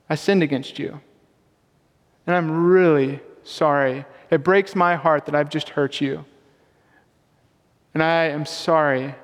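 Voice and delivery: unhurried, heartfelt remorse, acted with restraint; sincere apology. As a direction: own up gently and earnestly. Models a sincere apology to wife.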